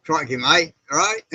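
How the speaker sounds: lightly voiced Aussie crocodile hunter; a hint of chirpy Aussie greeting, lifting at the end; Steve Irwin impression. Streamer greets viewers as the crocodile man, light Aussie impression. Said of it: "watching the crocodile, uh, the, what's his name, uh, Steve Irwin".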